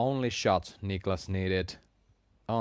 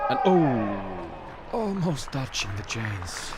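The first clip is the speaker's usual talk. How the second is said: excited near-miss reaction; slower than usual. Real, not acted. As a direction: react live as it just misses, drawing it out.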